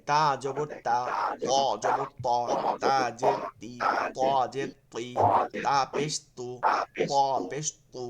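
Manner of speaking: তা জবর তা set against ত জবর ত, each syllable clear and separate; contrasting thin and thick letters. Shown as a demonstration. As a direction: read তা and ত in pairs so the difference is heard. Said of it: "আবার দেখাই".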